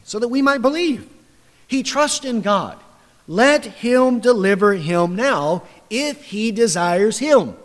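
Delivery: reviling taunt. Retold or imitated. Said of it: "also reviled him".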